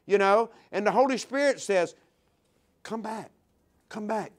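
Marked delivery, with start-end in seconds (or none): 2.8-3.3 soft, pleading call back. Acted. Holy Spirit gently calling back. 3.9-4.3 soft, pleading call again; a gentle second call, still soft. Acted. Holy Spirit gently calling back.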